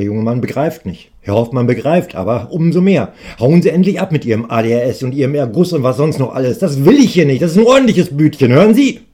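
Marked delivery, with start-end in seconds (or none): 3.4-9.0 louder, rising fury; he's had enough and it boils over; in a rage. Acted. Shopkeeper ordering the customer out, building angry tirade. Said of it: "hat sich in Rage geredet".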